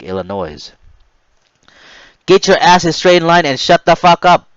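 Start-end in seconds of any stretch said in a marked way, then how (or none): 2.3-4.5 loud, high angry shout; drill instructor yell. Retold or imitated. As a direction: bark the order at the recruits. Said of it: "one R D C demanded of us".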